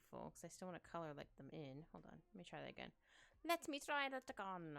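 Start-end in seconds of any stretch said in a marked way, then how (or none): 3.4-4.8 put-on slow, higher, louder silly accent; odd put-on accent. Artist talking to self while redrawing, odd put-on voice. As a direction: slip into an inexplicable goofy voice. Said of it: "I don't know why that voice, or accent".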